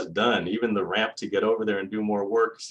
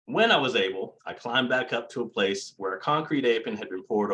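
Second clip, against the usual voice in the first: lightly voiced old-timey newsreel narrator; 1920s newsreel voice; 2 semitones higher than usual. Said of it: "Should I try for my nineteen twenties voice?".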